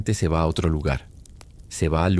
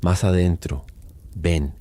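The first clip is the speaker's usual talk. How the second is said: hushed, coaxing whisper; whispering lure. Acted. The Patasola lures the lost man, whispering. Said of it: "susurra la voz".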